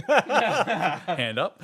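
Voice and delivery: high, loud timid echo; mock obedient hand up; intimidated reply. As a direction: answer like a cowed pupil. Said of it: "I was a bit intimidated".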